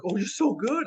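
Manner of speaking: high, loud mock gushing; gushing admiration. Praising an untrained actor, gushing. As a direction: imitate an over-the-top flatterer.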